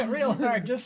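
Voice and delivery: laughing through the words; chuckling while telling it. Real, not acted. Shaking dog, laughing mid-story.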